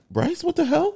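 put-on jolted by the boy's sudden yell; startled. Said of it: "we all looked back like".

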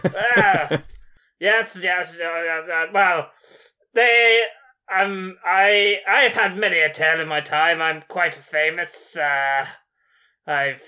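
lightly voiced boastful sorcerer; a hint of a grand wizard bragging. Player as sorcerer Gregomel bragging to the giant, lightly voiced.

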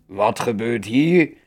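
enraged troll challenging intruders; furious troll king. A narrator's reading. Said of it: "klonk er uit het bos een woedende stem".

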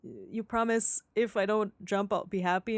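quiet. Retold or imitated. Voices Alan on the roof.

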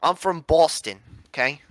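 badly faked Boston accent; half-hearted stab at a Boston accent; botched Boston accent that drifts toward British. Shown as a demonstration. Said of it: "I'm gonna do a Boston accent".

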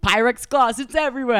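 high, loud and fretting; flustered exclaim. Retold or imitated. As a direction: blurt it out in a panic. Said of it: "Moishi's like".

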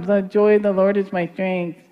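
mock listless recital, words slurred together; half-hearted mumble. Shown as a demonstration. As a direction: say it with no intensity at all. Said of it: "David threw the stone with some intensity".

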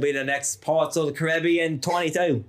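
lightly put-on pirate voice; hint of a pirate brogue. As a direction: play a boastful pirate, lightly. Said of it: "That's my pirate".

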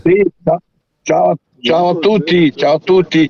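hoarse, worn-out voice; straining a tired, hoarse voice; voice giving out. Real, not acted. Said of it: "Sono senza voce".

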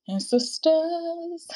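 slow whispered "sisters". Real, not acted. Podcast host drawing her sisters close, whispering. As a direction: lean in and whisper it slowly. Intimate aside to her listeners.

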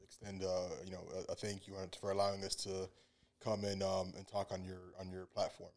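customer service voice. Acted. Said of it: "you got the customer service voice on".

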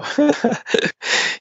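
high, airy laugh at his own joke; real laugh at a pun; breathy laugh. Real, not acted. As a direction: let out a breathless chuckle.

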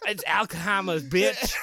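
mock Boston accent, Alkaheimers with dropped r. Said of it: "Boston up in here".

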